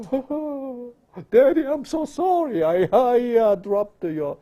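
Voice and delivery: high, tearful mock child voice; hammed-up sobbing kid, stumbling over the apology; whimpering child apology. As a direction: grovel to daddy in a wail. Mimicking a child apologising fearfully.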